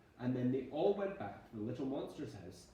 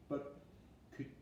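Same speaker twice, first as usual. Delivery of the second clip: little wobbly voice; 5 semitones higher, 8 dB quieter than usual. Acted. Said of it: "little wobbly voice".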